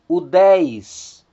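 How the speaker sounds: "udez" with a clear stressed "dez"; Greek diphthong demo. Shown as a demonstration. Teacher modelling the Greek word for students, stressing "dez". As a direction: sound out "udez", hitting the end. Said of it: "o ditongo ei".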